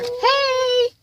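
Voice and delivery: a high, loud yell at the dog; real shout out the window; sharp shout. Real, not acted. Yelling at passing dog.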